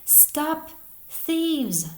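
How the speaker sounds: high, forceful accusing shout; loud voice. A narrator's reading. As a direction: shout to halt the thieves. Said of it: "then a loud voice".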